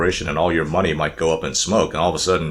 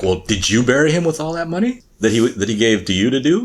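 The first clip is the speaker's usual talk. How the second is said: defensive; 7 semitones higher than usual. Retold or imitated. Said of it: "get a little bit, uh, defensive".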